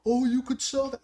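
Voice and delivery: high-pitched random bystander; random person. Retold or imitated. Random person butting in about selling it, high-pitched mimicry. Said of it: "random person's like".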